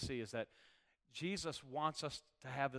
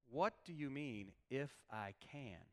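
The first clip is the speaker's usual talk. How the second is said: slow, measured question, dropping away on "if I can"; pointed questioning; 6 dB quieter, slower than usual. Acted. Jesus answering the boy's father, pointedly questioning. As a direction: quietly challenge the doubt, taking your time. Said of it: "that's exactly how he said it".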